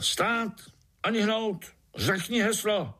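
high-pitched barked halt; sharp command. Acted. Ant guards halting the spider, sharp high command. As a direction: stop him like a guard. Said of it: "ostrý povel".

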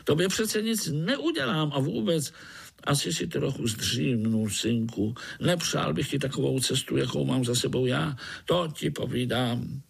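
high, quick grinning mosquito; jolly mosquito grinning at a spider. Acted. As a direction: tease the little spider, fast and high.

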